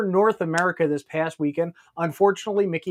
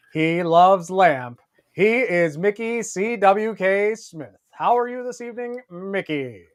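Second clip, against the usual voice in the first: put-on TV news anchor voice. Opening the show like a TV news anchor: Walter Cronkite impression. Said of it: "I'm done doing my Walter Cronkite".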